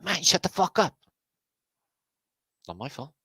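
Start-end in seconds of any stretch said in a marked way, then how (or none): 0.0-0.9 mock exasperated retort. Reply to a viewer about their name, mock exasperated. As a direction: throw it out as a mock outburst.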